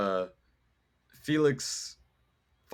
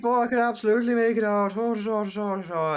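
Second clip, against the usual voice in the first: excited mock Lucas; 11 semitones higher, 5 dB louder, faster than usual.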